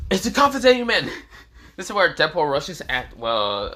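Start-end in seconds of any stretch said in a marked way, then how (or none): 0.1-1.1 loud, high-pitched yell; battle cry. Acted. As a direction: shout it like a charging hero. Battle cry of charging Deadpool.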